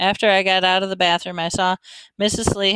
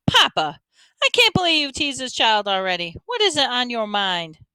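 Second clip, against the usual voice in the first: higher, exasperated daughter; scolding daughter; 6 semitones higher than usual. A narrator's reading. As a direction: chide your father with mild disbelief. Daughter scolds her father.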